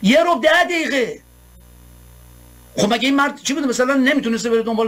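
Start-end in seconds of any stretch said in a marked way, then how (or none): 0.0-1.2 "یه ربع ده دقیقه" repeated high and slow in disbelief; mock the tiny delay, drawn out; incredulous, sarcastic repeat; scornful echo. Real, not acted.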